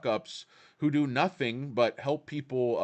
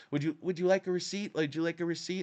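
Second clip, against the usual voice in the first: higher, quick, chirpy receipt offer; mock teller; 3 semitones higher, faster than usual. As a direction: parrot a clerk's stock question.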